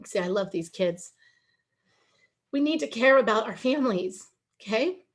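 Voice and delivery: choked up, pausing between phrases; heartfelt, holding back emotion; emotional. Real, not acted. Speaker moved by love for these kids, emotional. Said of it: "I apologize for getting emotional".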